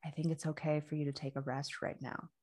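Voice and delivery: soft, soothing retold reassurance; gently reassuring. Practitioner calming an anxious mind, gently reassuring.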